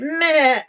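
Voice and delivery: sheep bleat. Retold or imitated. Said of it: "then she went".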